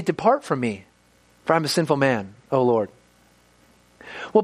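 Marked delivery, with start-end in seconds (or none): 0.0-2.9 humble lament. Shown as a demonstration. Preacher voicing Peter confessing before Jesus, lower and humbled. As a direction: say it bowed down, ashamed. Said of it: "Why would he say".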